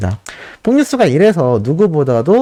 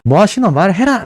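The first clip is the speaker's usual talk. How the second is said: higher-pitched mock movie shout; imitated shout; 5 semitones higher than usual. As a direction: call it out lightly, imitating a teacher's demand. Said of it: "라고 외치니까". (선생님 대사를 흉내 내어 높게 외치듯)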